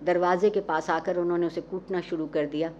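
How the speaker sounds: ordinary delivery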